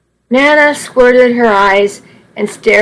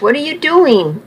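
alarmed protest; 5 semitones higher than usual. Acted. Nana whacking Charlie with cane.

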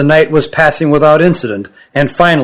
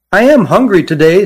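put-on higher voice for the young Kirin; young creature voice; 4 semitones higher than usual. Young Kirin Jilin speaks.

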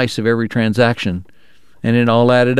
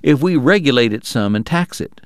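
offhand suggestion; 3 semitones higher than usual. Acted. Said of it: "like he was offering an idea that had just occurred to him".

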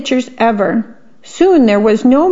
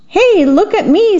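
much higher, delighted squeal; gleeful squeal; 10 semitones higher than usual. A narrator's reading. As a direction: show off while flying through the air. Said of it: "Squeak squealed".

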